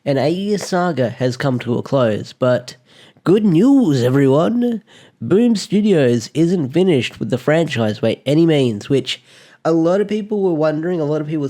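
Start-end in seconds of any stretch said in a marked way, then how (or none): 3.2-7.2 excited. Real, not acted. Excited announcement to viewers.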